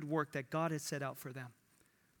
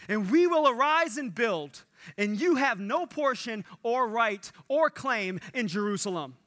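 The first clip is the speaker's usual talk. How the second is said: defiant proclamation; 3 semitones higher, 5 dB louder than usual. Retold or imitated.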